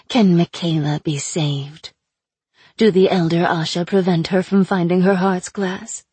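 sly, mocking captive witch; taunting sorceress voice. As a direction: purr it out like a cruel captor. Aina tempting.

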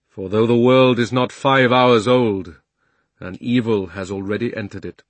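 solemn lion king voice; Aslan. Acted. Aslan addresses the council.

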